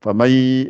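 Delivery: famay said slowly, nun dropped, ma running into a doubled ya through the nose; nasal merging demo. Shown as a demonstration. Teacher showing idgham to students, slow nasal demo. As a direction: drop the nun and glide ma into ya, nasal. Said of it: "je sors le son par le nez".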